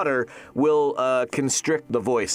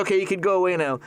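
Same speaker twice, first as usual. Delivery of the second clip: put-on quick, slightly higher kid dismissal; imitating young son; 4 semitones higher, much faster than usual. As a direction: lightly play a bossy child sending Dad off. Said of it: "And he goes".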